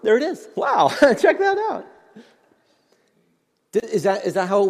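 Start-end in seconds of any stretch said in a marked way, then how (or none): 0.0-1.8 delighted high squeal; thrilled at its own apple; excited. Pretend.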